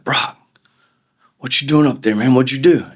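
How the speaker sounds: high, excited mock shout from the back; old buddies from the back row, surprised to see him up front; guys from the back calling out. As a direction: call out to him like an old buddy. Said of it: "they're like".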